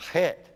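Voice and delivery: "het" with a breathy, airy H at the start; windy. Shown as a demonstration. Teaching students the het, windy breathy H. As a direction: blow air through the H of "het". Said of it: "The het's more windy".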